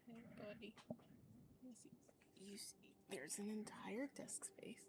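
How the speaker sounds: gentle whispered coaxing. Real, not acted. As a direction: coax the cat in a whisper. Whispering to cat on lap.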